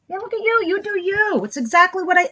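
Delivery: high doting pet voice; pet talk. Real, not acted. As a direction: coo at the little animal on the floor. Cooing at a fallen pet.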